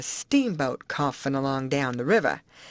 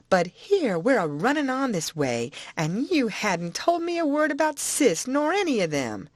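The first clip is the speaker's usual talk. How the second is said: put-on higher, eager old-woman voice; Aunt Sally's voice; 5 semitones higher than usual. Aunt to the boy, eager old-woman voice. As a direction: coax the boy for all the news.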